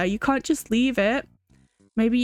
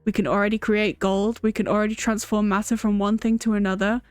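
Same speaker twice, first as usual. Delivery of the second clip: lightly voiced alchemist; 2 semitones lower than usual. Alchemist boasting to his fellows, lightly voiced gloating. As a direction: read it as a gloating alchemist, quick in places. Alchemist NPC dialogue read aloud.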